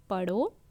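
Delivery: पढ़ो alone, pitch rising, then stop; pause after पढ़ो. Shown as a demonstration. Teacher demonstrates a comma stop, pausing after पढ़ो. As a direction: hang on पढ़ो and halt for the comma. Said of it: "तो जैसे मैं ठहरी".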